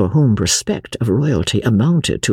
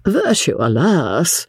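sighed; 6 semitones higher, slower than usual. A narrator's reading. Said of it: "sighed the prince".

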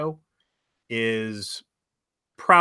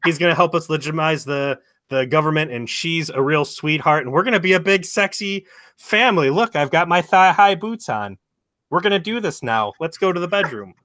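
high, loud hammed-up old wife; 6 semitones higher, 8 dB louder than usual. Telling a friend about the old wife, hammed-up and loud. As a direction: camp it up as the eager old wife. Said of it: "her old wife ... is like".

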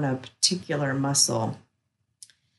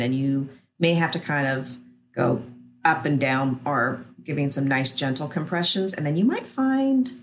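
soothing massage murmur. Acted. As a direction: guide them gently into rest, unhurried. Guides an acupressure relaxation.

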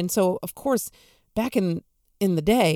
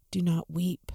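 softer, hushed comfort; gentle and tender; 3 semitones lower, 4 dB quieter than usual. Shown as a demonstration. Preacher gives Jesus's words to the grieving widow, softly and tenderly. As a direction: lay the words down gently, like a hand on a shoulder. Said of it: "Those simple words".

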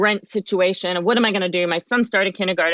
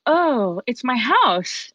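awed recognition; 4 semitones higher, much slower than usual. Retold or imitated. Awed at first sight of house.

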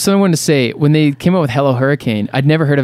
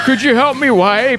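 much higher, helpless pleading; high silly voice; 10 semitones higher than usual. Pretend. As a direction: beg like a helpless child. Acting band member in bathroom.

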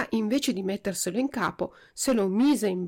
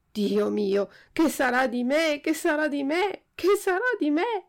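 each repeat climbing higher, from worried to near-wailing; mock wail growing more frantic with every repeat; rising desperate wail; 7 semitones higher than usual. A narrator's reading. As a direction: let the panic build phrase by phrase to a high cry. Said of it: "continuava a piangere, a berciare".

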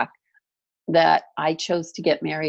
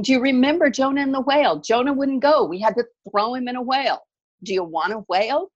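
higher, quick, hammed-up Jewish accent; bad Jewish accent; 7 semitones higher, faster than usual. The dream woman warns her about the whale, in a bad Jewish accent. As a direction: rattle it off in a mock Jewish accent, pitched up. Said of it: "This really bad Jewish accent".

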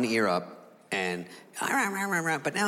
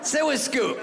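higher, sweet-talking mock dog; coaxing dog voice; 4 semitones higher than usual. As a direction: lure the human onto the couch, lightly voiced.

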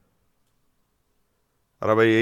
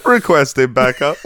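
police radio call; 4 semitones higher, 3 dB louder than usual. Pretend. Radio cop bit continues.

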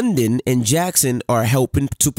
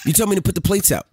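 put-on defensive kid; 6 semitones higher, faster than usual. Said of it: "He said".

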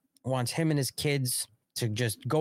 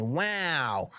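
mock sarcastic awe; slower than usual. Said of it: "we'll say".

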